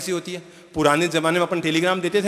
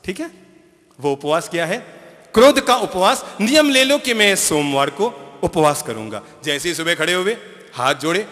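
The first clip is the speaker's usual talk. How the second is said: normal talking voice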